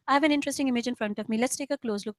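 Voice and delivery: easy, unhurried, relaxed delivery; just say it normally, no push; relaxed reading. Shown as a demonstration. Coach showing students the right way, calm and relaxed. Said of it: "I'm doing it in a very relaxed manner".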